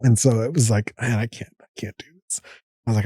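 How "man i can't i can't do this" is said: breathless, defeated. Retold or imitated. Winded at top of the stairs.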